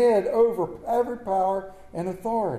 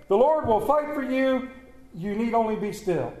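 popular misquote; 4 semitones higher than usual. Retold or imitated. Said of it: "They're not in that Bible".

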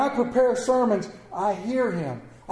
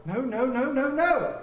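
tag; 6 semitones higher than usual. Retold or imitated. Grandmother's rapid scolding retold.

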